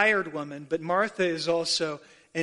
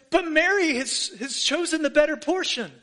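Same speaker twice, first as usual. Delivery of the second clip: emphatic; 9 semitones higher, 4 dB louder than usual. Retold or imitated. Jesus' line, raised for emphasis.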